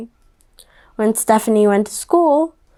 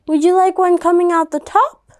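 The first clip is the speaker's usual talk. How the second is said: mom voice; 7 semitones higher than usual. Acted. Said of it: "the mom said".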